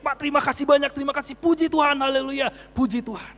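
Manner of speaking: high, gushing mock cries of thanks; retold joyful shouting. Pardoned motorist thanking the policeman, retold joyful shouting. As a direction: pour out thanks high, easing off toward the end. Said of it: "Saya teriak-teriak".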